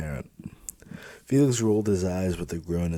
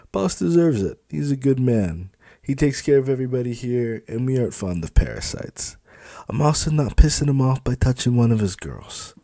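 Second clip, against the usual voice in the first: high, loud, firm; raised, insistent loyalty; loyal supervisor; 6 semitones higher, 5 dB louder than usual. Acted. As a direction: defend the boss proudly. Felix defends boss.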